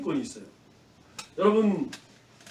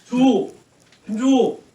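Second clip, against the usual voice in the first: called higher and louder, insistent; calling out a name; 4 semitones higher, 7 dB louder, slower than usual. Acted. Teacher calling a child by name to show a calling, raised call.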